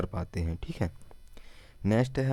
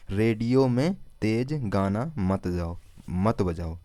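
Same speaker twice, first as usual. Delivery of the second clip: slow repeat; slower than usual. Shown as a demonstration. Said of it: "ठीक है, यानी कि इस रेड्डी को".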